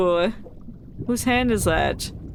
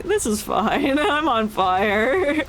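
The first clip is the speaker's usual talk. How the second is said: calm meme voice; much slower than usual. Retold or imitated. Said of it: "This guy in the corner, like".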